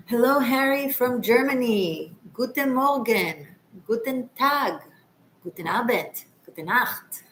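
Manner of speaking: hammed-up German accent; ridiculous German accent. Greeting a German viewer in broken German, ridiculous German accent. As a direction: play up a German accent, drawing out the phrases. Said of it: "Sorry for being ridiculous with the accent".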